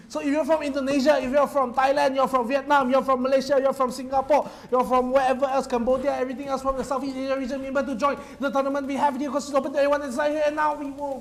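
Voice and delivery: rally the whole region to join; loud, fast promo call; hype announcement. Real, not acted.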